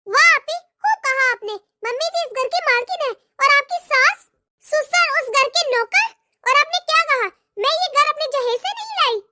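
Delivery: a lightly voiced, sarcastic young wife; mock her words back at her; sarcastic daughter-in-law. Daughter-in-law arguing sarcastically with her sister-in-law.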